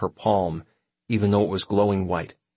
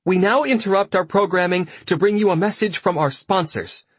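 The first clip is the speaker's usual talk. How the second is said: higher TV announcer read; 9 semitones higher than usual. Acted. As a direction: break in like a broadcast. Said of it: "Liz stopped screeching long enough to say".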